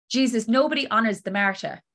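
rough attempt at an Irish accent. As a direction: imitate your Irish mum, accent slightly off. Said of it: "excuse the failed attempt, the Irish accent".

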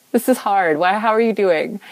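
sympathize, then kindly check in; caring, lifted voice; gentle asking. Retold or imitated. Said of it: "what about asking?".

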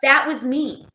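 whispered aside. Real, not acted. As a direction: say it under breath.

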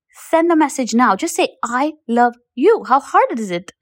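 insistent, punchy retold coaching; exasperated urging. Coach telling women to text their husbands, exasperated urging. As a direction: push them as if it's the easiest thing.

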